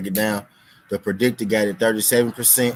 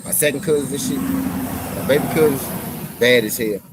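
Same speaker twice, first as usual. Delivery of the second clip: exasperated emphasis; 4 semitones higher, 5 dB louder than usual. Real, not acted. Exasperated about cousins.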